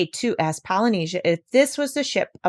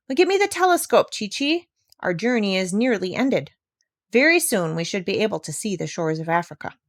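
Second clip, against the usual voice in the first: cheerful captain asking for the telescope; the doctor. Acted.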